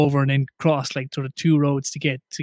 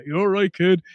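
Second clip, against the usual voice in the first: put-on half Irish half English accent; 4 semitones higher than usual. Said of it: "that real sort of half Irish, half English type".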